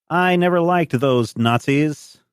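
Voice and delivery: put-on high, slow old farmer voice. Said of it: "where he says".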